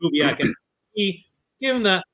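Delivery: ordinary talk, nothing marked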